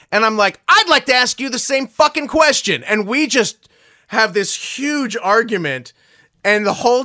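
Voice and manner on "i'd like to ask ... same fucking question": high, loud indignant comeback; retold furious raised voice; acted angry retort. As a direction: throw the question straight back, heated.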